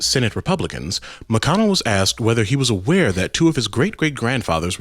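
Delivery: formal news anchor read; newscaster voice. Shown as a demonstration. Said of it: "I'll even bring out my newscaster voice for this".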